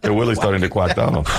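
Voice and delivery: "Willie's" for really, R softened to W; mimicked speech impediment. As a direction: parrot her W-for-R slip in "quack". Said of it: "put as many of those sounds".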